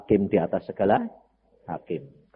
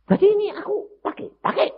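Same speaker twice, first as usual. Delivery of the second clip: voicing God; 6 dB louder than usual. God's voice quoted in sermon.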